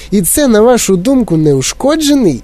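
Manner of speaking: high-pitched outraged question; indignant. A narrator's reading. Mother challenging Wonka's verdict, indignant. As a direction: challenge it, stretching the last word. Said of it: "обурилася пані Ті Ві".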